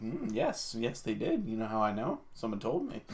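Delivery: lightly voiced self-satisfied expert; pompous know-it-all. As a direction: smugly assure everyone. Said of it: "everyone would be like".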